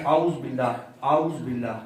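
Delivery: اعوذ run together as "auz" before باللہ; common mistake. Shown as a demonstration. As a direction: merge الف and عین in اعوذ into one short syllable. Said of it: "اس میں پڑھتے ہیں". (اعوذ باللہ، "اوز" کی طرح ملا کر)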